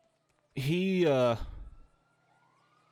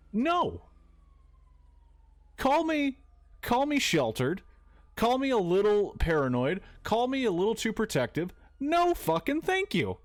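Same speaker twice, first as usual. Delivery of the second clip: high-pitched, incredulous no-thanks; emphatic refusal; 9 semitones higher than usual. Acted. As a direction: push the refusal up high, drawing out key phrases. Mock refusal of cult offers.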